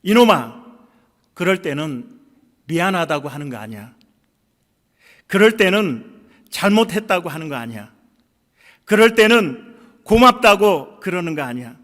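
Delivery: loud scolding yell; father shouting at his son; retold shout at son. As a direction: yell it at the boy who apologised. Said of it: "아들에게 소리를 질렀답니다".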